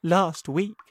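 high, loud complaining spider. Acted. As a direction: whine it high.

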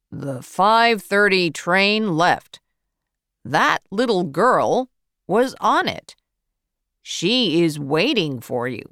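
a hint of a brisk clerk answering; ticket office man. Station clerk tells Matthew the girl waits, lightly voiced.

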